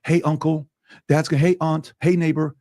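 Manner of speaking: begging son voice. Retold or imitated.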